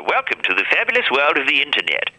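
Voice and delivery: hint of a 1940s newsreel announcer; lightly voiced old newsreel narration. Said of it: "that old style nineteen forties voiceover".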